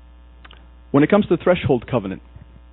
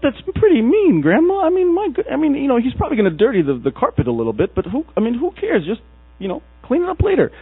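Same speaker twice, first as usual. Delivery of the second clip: high pleading protest; 12 semitones higher than usual. Retold or imitated. Boy pleading with his grandma, high and whiny.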